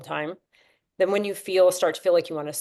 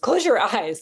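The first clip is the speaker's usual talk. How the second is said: higher, louder, laughing at the slip; laughing correction; 4 semitones higher, 5 dB louder than usual. Real, not acted. Teacher correcting herself to the breathwork class, laughing. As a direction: fix the mistake with a laugh. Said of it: "Don't close your nose".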